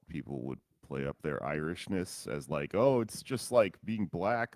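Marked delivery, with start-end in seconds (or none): 2.7-4.6 mocking quote. Mocking Irish-American claim.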